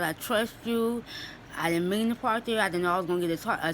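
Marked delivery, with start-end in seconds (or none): 0.0-1.0 sincere trust prayer. Retold or imitated. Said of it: "I told God".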